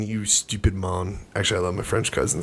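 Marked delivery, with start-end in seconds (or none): 0.0-1.2 mock Jamaican accent. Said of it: "Are you going Jamaican again?".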